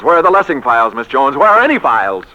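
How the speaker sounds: loud, exasperated calls for the files; impatient shouting. Acted. Boss shouting at his secretary over lost files, exasperated. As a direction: bark it out like a harried boss.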